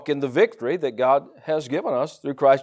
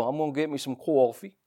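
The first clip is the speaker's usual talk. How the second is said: put-on New York accent; 6 dB quieter than usual. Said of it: "you hear them talk".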